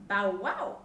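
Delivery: loud storybook bow-wow; dog's bark. A narrator's reading. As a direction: bark out boldly like a dog. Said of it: "said the dog".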